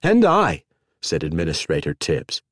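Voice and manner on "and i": eager echo. A narrator's reading. Tibbs quickly matching rival.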